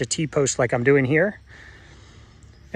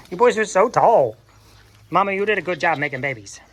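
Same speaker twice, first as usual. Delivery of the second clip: gushing praise; 5 semitones higher than usual. Real, not acted. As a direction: gush over how tall they are. Cooing praise at goats.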